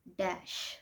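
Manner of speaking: breathy whisper for the sound; quiet whispered demo word. Shown as a demonstration. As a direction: whisper the word "डैश" softly. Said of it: "फिर शा sound आ जाती है".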